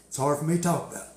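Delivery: mock-solemn, subdued delivery; feigned grief. Tattooed man fakes tragedy for news crew, mock-solemn. Retelling his deadpan fake tragedy.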